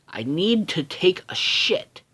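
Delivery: high, slow put-on Milo voice; cartoon kid voice. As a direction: announce it like a cartoon schoolboy. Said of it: "he gets to the special school, and he's like".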